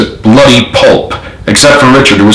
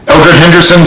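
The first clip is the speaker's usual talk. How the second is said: stern; 7 semitones higher than usual. A narrator's reading. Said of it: "said McGoldrick sternly".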